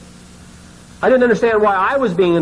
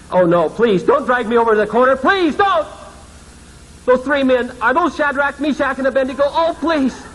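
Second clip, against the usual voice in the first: pleading; 5 semitones higher than usual. Retold or imitated. Begging not to be dragged.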